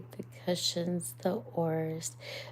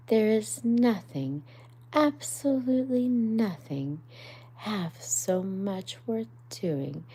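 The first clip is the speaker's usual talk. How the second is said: dreamy Rat; 3 semitones higher, 4 dB louder than usual. Acted. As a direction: savour every word. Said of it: "he went on dreamily".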